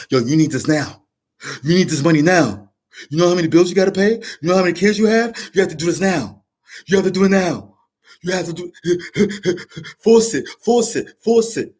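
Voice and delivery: pushy ego voice. Retold or imitated. Ego pressuring the viewer to force it, urgent and rising. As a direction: nag yourself like a panicking ego. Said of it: "Your ego is telling".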